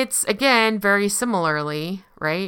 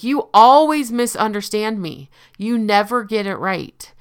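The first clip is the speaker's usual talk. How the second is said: mocking; 4 semitones higher, 6 dB louder than usual. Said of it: "mock you for your wrongdoings".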